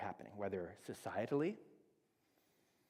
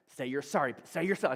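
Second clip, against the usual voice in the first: rising, louder and higher demand; upset parent yelling; 4 semitones higher, 9 dB louder than usual. Retold or imitated. Parent snapping at daughter to apologize, loud. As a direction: insist louder each time, losing patience. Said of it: "I start to get upset".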